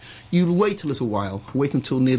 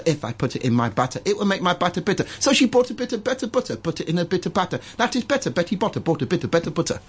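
auction school tongue twister; 2 semitones higher than usual. Shown as a demonstration. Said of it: "Say it slowly, say it slowly to me".

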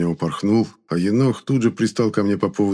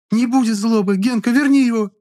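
put-on pleading girl; 5 dB louder than usual. A narrator's reading. Klara pleads before sobbing.

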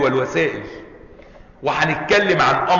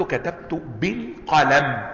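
"كتبت بالقلم" said slowly and softer; slow spelled-out example; 4 dB quieter, much slower than usual. Shown as a demonstration. Teacher completing the example for students, slow and deliberate. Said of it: "قلت".

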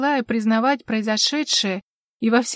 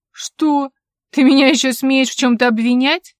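loud, higher indignant retort; outraged shout; 4 semitones higher, 9 dB louder than usual. Acted. Investigator answering Fargelan's threat, outraged shout. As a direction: hurl the accusation back.

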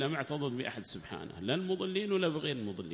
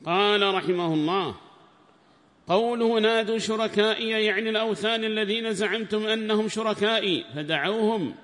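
raised, higher recitation voice for the quoted book; formal text reading; 8 semitones higher, 8 dB louder than usual. Acted. Sheikh reading the tafsir book aloud to students, raised formal reading voice. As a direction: declaim the commentary text like reading to a class.

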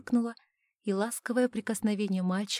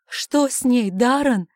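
loud, higher, cracking question; voice breaking; 4 semitones higher, 11 dB louder, slower than usual. Acted. Husband asking his son about his wife, voice breaking loud. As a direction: ask with a breaking voice. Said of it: "срывающимся голосом спросил".

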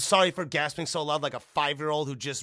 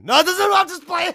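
laughing shout; 14 dB louder than usual. Real, not acted. Jokingly backing off.

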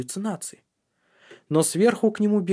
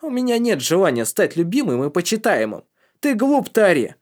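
through gritted teeth; 8 semitones higher, 6 dB louder than usual. Acted. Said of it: "сквозь зубы процедил".

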